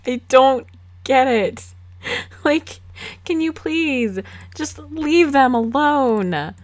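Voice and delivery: can you please just leave them alone, exasperated. Real, not acted. Exasperated at interrupting Sim.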